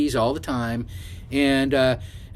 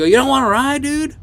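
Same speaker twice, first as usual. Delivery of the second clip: high-pitched puzzled asking; retold incredulous question; 11 semitones higher, 4 dB louder than usual. Driver offers cursing Mike a ride, retold incredulous question. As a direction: ask it in mock disbelief.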